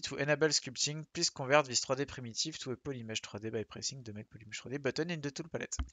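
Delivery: English read with a heavy French accent. Shown as a demonstration. Teacher reading ZBrush's English message, French accent. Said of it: "Magnifique accent français".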